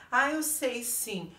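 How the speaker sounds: lightly put-on girl's voice; girl's reply. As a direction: stretch it out in mild mockery. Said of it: "Aí ela".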